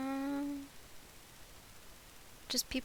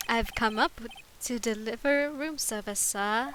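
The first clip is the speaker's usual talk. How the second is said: bellboy voice; 4 dB louder than usual. Acted. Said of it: "I am the bellboy".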